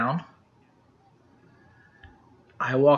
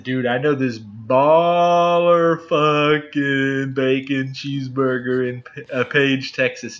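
hyped bro voice; slower than usual. Retold or imitated. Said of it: "He's like, I said".

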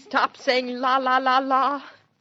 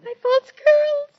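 high, loud, slow wail; dismayed; 6 dB louder, slower than usual. Acted. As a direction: squeal it out in dismay. Daughter in dismay, mother grilling.

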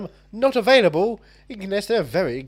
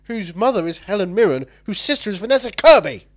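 indignant rant; 3 semitones higher, 3 dB louder than usual. Acted. Mock indignant rant about rival film.

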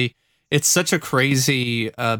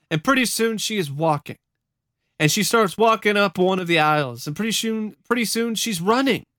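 higher, wondering storytelling voice; testimony read aloud; 6 semitones higher than usual. Acted. Witness recalls the congregation running the aisles, animated retelling. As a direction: retell the miracle as it unfolds.

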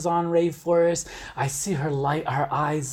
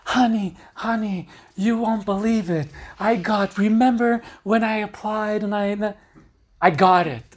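higher, bubbly rush of good news; excited partner's news; 4 semitones higher than usual. Retold or imitated. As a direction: tell him the big news, thrilled. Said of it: "comes to me and tells me".

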